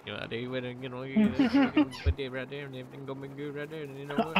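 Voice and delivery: garbled rambling patter; bushy-bearded Duergar guard. Acted. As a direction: jabber as a barely intelligible dwarf. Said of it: "a strange-looking Duergar".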